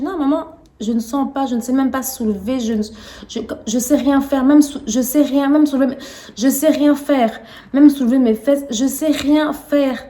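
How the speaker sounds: retold panic to mother, pleading; panicked pleading. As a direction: insist in panic that nothing works.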